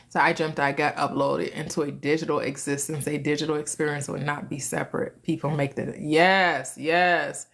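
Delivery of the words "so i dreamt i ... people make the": low, subdued read-out of a comment; reading aloud. Real, not acted. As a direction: read the message in an undertone. Reads out a viewer's message.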